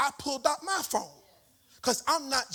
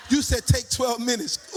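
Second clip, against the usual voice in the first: loud, laughing statement with YOU pushed; triumphant laughing retort; laughing declaration; 6 dB louder than usual. Real, not acted. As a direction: crow it back with a laugh. Laughing confirmation of the time.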